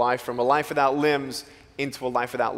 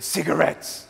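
deadpan joke. Retold or imitated. Punchline to kids.

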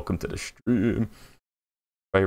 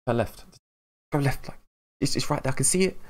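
rising, urgent backseat directions, higher and higher; yelling at the screen; 6 semitones higher than usual. Retold or imitated. Viewer yelling directions at a YouTuber, frustrated and rising. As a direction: urge the player on as if he can hear you.

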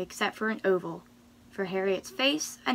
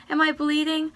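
high, loud alarmed question; raised-voice storybook alarm; yelled question; 7 semitones higher, 6 dB louder than usual. A narrator's reading. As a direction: cry it out in dramatic panic. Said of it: "she yelled".

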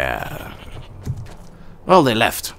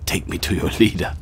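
laughing; 2 semitones lower, faster than usual. Pretend. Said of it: "I always wanted to say that".

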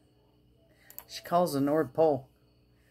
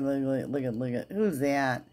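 ordinary delivery

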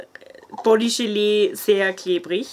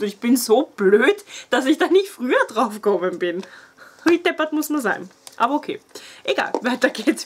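jittery excited; 3 semitones higher than usual. Real, not acted. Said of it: "Ich bin so hibbelig".

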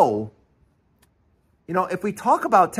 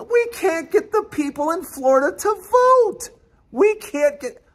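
exasperated; 10 semitones higher than usual. Real, not acted. Exasperated complaint.

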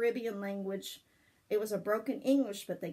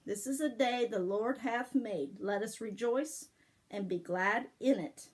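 verse recitation. Shown as a demonstration. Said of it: "I'm gonna teach you".

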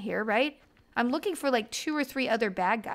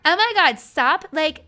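put-on valley girl voice; 3 semitones higher, 5 dB louder than usual. Valley girl rant at game character.

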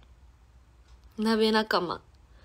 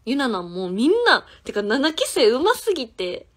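excited gushing; 3 semitones higher, 7 dB louder than usual. Real, not acted. Gushing about juniors' singing.

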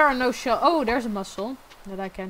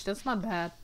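voice cracking; 6 dB quieter than usual. Real, not acted. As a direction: voice cracks and drops away, softer.

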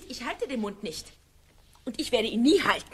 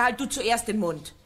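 angry retort. Acted. Shouting match with husband.

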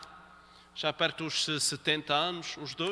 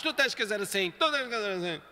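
bossy order. Shown as a demonstration. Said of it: "Ela cá em cima e ele cá em baixo".

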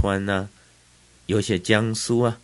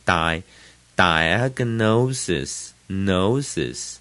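diagnosis slowly, long I in die, main weight on NO; secondary stress on die; much slower than usual. Shown as a demonstration. Teacher breaking the word down, long die, stressed nosis. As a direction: stretch die, then hit nosis in diagnosis. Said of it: "die是次重音，I的长音".

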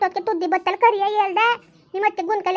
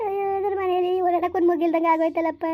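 weeping lament. Acted. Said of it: "ಅಳ್ಬೇಡ, ಸುಮ್ನಿರು".

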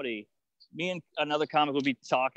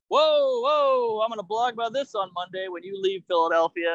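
mock offended comic; 3 semitones higher, 4 dB louder than usual. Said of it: "another comic might be like".

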